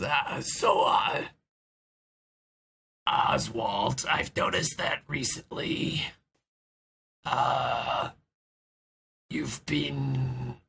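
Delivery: hesitant, half-whispered, halting; nervous. Acted. Knack gingerly raising a concern with Oswald, nervous and hushed. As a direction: tread carefully, with long hesitations. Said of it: "hands together nervously".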